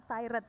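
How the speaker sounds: "tired" as "tai-ret"; imitating pupils' two-syllable "tired"; learners' mispronunciation. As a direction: say "tired" with a sounded r and "et" ending. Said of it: "Biasanya anak-anak".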